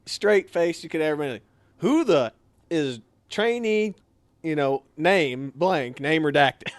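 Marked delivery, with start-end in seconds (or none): 1.8-6.7 matter-of-fact. Retold or imitated. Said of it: "he just said it so matter-of-factly".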